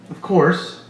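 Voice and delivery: "course" said tentatively, like a question. A narrator's reading. Roger answers whether he remembers the talk, questioning. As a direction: say "Of course" as if unsure it is true. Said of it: "He said it like a question".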